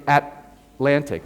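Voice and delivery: "Atlantic" slowly, first T held back unreleased. Shown as a demonstration. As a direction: break "Atlantic" after a stopped At-. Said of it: "You don't release the T".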